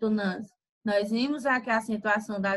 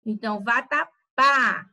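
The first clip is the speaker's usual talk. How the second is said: louder, stressing the end of vatapá, café, bebê; final syllable stressed; 3 dB louder, slower than usual. Shown as a demonstration. Teacher showing students the strong final syllable, stressed. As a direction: hit the last syllable of each word: vaTAPÁ, caFÉ, beBÊ. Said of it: "ao final ela vai ter um som mais forte".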